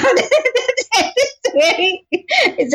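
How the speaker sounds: chuckling mid-sentence, stretching it out; amused, drawn-out giggle; laughing. Real, not acted. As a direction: laugh at your own vow to stay out of the kitchen. Laughing about avoiding the kitchen.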